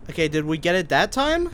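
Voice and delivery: loud and fed up; exasperated. Real, not acted. Frustrated retry.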